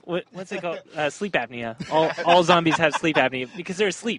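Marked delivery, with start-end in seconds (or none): 1.9-4.2 laughing through the joke; louder, giggling while speaking. Real, not acted.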